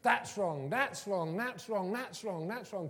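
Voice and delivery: rapid repeated ticking-off, fading in level; critical marker. Acted. Teacher red-marking a child's book, mock critical. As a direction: hammer out each correction in turn. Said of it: "Red mark all over it".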